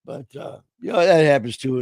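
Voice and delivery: a worn-out, fading hoarse voice. Real, not acted. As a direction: voice going hoarse. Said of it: "the voices go bye-bye".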